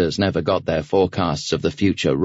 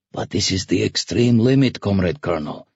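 whiny protest from a nervous helmsman; whining. A narrator's reading. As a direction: plead with your superior in a whine. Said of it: "the helmsman whined".

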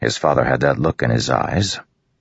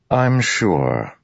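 higher-pitched sceptical doubt; skeptical; 6 semitones higher than usual. A narrator's reading. Royan answers Dalinar's offer, skeptical. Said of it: "Royan said skeptically".

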